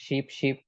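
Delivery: both "শিপ" short and identical; same sound twice. Shown as a demonstration. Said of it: "দুইটাই same উচ্চারণ".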